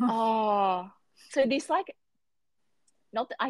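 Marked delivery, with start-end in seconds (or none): 0.0-0.9 drawn-out whimpering moan; mock sob. Reader grieving a fictional character, mock sobbing. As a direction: let out a long wailing "oh". Mock grief over the book.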